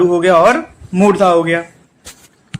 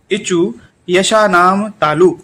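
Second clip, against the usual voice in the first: slow recitation; slower than usual. Shown as a demonstration. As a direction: slowly recite इचु यशानाम तालु word by word. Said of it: "दूसरा है".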